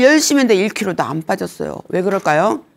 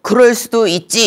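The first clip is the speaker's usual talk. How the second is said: Singer impression; 4 semitones higher, 3 dB louder than usual. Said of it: "양희은 씨가 항상 하는 얘기가".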